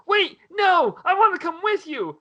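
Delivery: high mock shout, wait for me; hammed-up childish plea; pleading kid. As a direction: call out after him like a whiny kid. Kid calls after departing creature.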